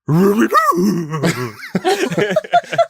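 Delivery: high, loud laughing; embarrassed laugh. Real, not acted. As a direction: laugh it off sheepishly. Embarrassed after impression.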